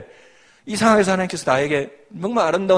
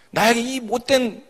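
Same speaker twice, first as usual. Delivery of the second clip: higher, slow grumbling question at fate; resentful complaint; 6 semitones higher than usual. Retold or imitated. Believer retelling her old self-pity, mock grumble. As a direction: voice the old bitter thought, lightly. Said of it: "이렇게 생각하는 게 아니라".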